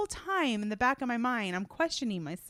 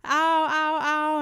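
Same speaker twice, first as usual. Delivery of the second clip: imitating toddler crying; 8 semitones higher, 8 dB louder, much slower than usual. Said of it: "sitting there sobbing, like".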